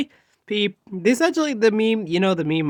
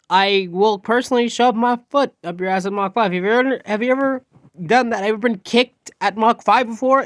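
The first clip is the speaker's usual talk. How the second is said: heated, emphatic warning, pitched up; angry threat; 3 semitones higher, 4 dB louder than usual. Acted. Fed-up student threatening a loud classmate, angry. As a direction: lay down a forceful ultimatum.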